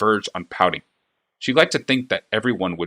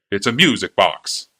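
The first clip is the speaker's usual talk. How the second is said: fawning clockmaker; 4 dB louder, slower than usual. A narrator's reading. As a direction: gush over the princess like an eager flatterer. Clockmaker presents box.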